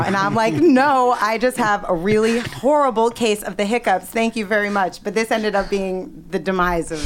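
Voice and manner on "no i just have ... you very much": huffy retold comeback, easing off at the end; indignant denial. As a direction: insist on it, putting on offended dignity. Drunk caller's indignant reply, retold.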